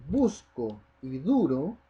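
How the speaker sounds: "busco" and "duro" drawn out slowly on the stressed U. Shown as a demonstration. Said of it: "yo marco la voz en la U".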